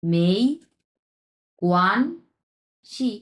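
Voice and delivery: "মেই কোয়ানশি" very slowly, each syllable apart; rising "মেই", held "কোয়ান", released "শি"; tone-by-tone demo. Shown as a demonstration. Teacher separates the tones, very slow demonstration. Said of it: "প্রথমে দুই number tone উচ্চারণ করলাম".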